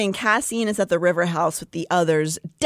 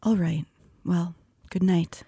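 hurt farewell; 4 dB quieter than usual. Acted. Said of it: "Her eyes flickered with something like hurt".

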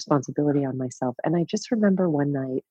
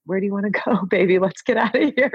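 tender coaxing; 3 semitones higher than usual. Retold or imitated. Comforting her inner child, tender and loving. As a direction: coax her gently like a child. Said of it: "now I'm like".

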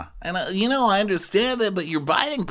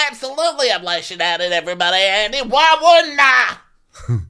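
mock defiant; 4 dB louder than usual. Podcast hosts acting out reality show quote.

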